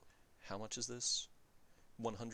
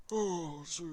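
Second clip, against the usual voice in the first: surprised; 10 semitones higher, 7 dB louder than usual. Real, not acted. Sudden realization of forgotten cost.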